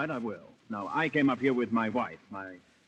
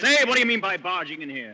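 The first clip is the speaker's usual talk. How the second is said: higher, louder rebuke; indignant; 7 semitones higher, 6 dB louder than usual. Acted. Nick scolding the clerk, higher and louder. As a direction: tell off the intruder.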